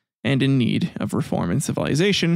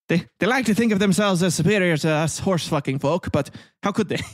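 a hammed-up, higher posh English accent; terrible English accent; 4 semitones higher than usual. Mocking the British as superior, in a hammed-up English accent. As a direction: lampoon the smug British with a bad English accent. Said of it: "That's a terrible accent".

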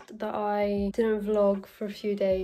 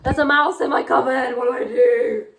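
loud, raised voice of alarm; freaked out; 3 semitones higher, 9 dB louder than usual. Real, not acted. Vlogger finds a mouse in the cupboard, freaked out. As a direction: call out in alarm. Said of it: "I literally screamed when I saw it".

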